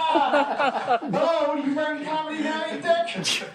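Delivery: high, loud comeback through laughter; laughing retort. Real, not acted. Teasing a friend who joked about the honeymoon, laughing. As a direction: tease back while cracking up.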